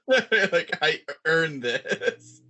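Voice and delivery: very slow, drawn-out entitlement; entitled whine. Pretend. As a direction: draw it out smugly. Mocking entitled voice.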